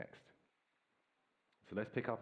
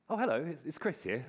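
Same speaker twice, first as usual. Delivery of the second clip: put-on phone voice; 5 semitones higher than usual. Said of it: "I put my phone voice on".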